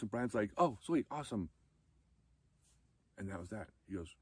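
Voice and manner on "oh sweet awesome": higher, louder casual cheer; excited approval. Retold or imitated. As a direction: toss it off like happy good news. Brian's happy reply.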